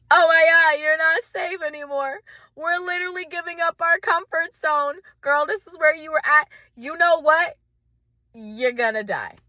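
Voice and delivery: high, loud, frantic panic; panicked voice. Acted. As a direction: shriek like your nervous system. Voices panicked nervous system.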